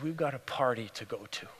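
low, hushed but voiced; tender. Father to his daughter come home, tender. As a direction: tell her gently, voice kept low.

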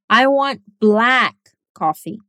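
slow, "black" punched hardest; stress on black. Shown as a demonstration. Correcting a friend's coffee mix-up, stressing black. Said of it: "Repete comigo".

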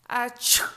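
acted wolf sneeze; a light pretend sneeze; mock sneeze. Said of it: "estornudó el lobo".

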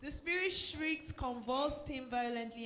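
slow. Shown as a demonstration. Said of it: "let's take it again".

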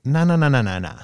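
rattled-off nahs, starting high and dropping; put-on voice. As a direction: wave it off in a silly put-on voice. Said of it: "I don't know why I had that voice".

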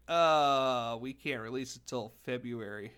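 light surfer dude impression; lightly voiced surfer, drawn-out groan first. Mocking console makers who back out, light surfer voice. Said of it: "I went with the surfer voice".

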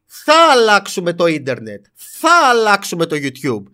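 slow, pompous mock declaration; hammed-up boast to change the internet; mock grand promise. A YouTuber mocking the misquote, slow and pompous. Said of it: "Από πότε το «θέλουμε» έγινε «θα»".

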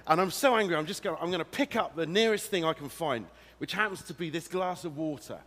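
hammed-up fury, loud and high; pretend anger. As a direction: act so angry you could grab anything. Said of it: "say I get really angry with someone".

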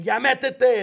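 retold mom's scream. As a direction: imitate a mom yelling an order. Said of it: "my mom would scream".

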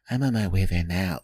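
low, flat, ominous phone line. Retold or imitated. Girlfriend calling, upset, low and flat. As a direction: drop it low and cold as a warning. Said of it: "it's more like".

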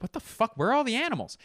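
high, incredulous what the fuck; baffled outrage. Retold or imitated. Viewer baffled by an animal-free film, high incredulous yelp. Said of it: "I'm like".

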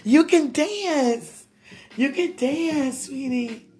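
high, loud, drawn-out squeal of delight; thrilled and squealing over a sweetheart's dancing; excited gushing. Real, not acted. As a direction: gush loudly, stretching the words. Gushing over seeing sweetheart dance.

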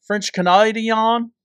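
drawn-out pretend French-Canadian, stretched last syllable; mock French-Canadian accent. Asking after anybody from Montreal, mock French-Canadian accent. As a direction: put on a slow joke French-Canadian accent.

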